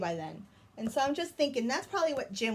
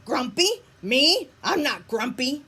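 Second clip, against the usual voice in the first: louder, rising protest; indignant denial; 4 semitones higher, 7 dB louder than usual. Acted. Grumpy Jim protesting to Lemur, indignant and loud. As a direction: protest louder each word.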